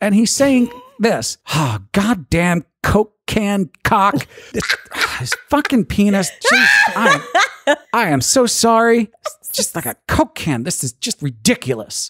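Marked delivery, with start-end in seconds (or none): 1.5-12.1 fed-up, exasperated, frustrated rant. Acting out a man struggling to put on a condom, retelling him yelling at himself. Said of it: "And he's yelling at himself".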